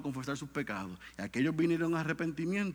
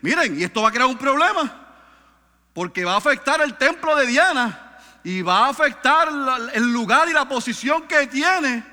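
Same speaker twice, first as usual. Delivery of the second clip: retold alarm; 9 semitones higher, 11 dB louder than usual. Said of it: "Ellos dicen".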